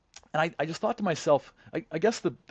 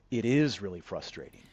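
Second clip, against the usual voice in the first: flight attendant's inflection; 6 semitones lower than usual. Retold or imitated. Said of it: "I'll try to do the, the inflection in her voice".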